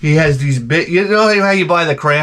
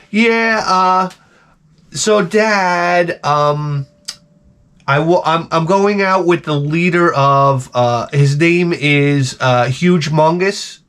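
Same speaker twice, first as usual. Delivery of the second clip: put-on higher, slow hesitant girly voice; mock daughter voice; 5 semitones higher, much slower than usual. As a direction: daughter stalling before breaking bad news.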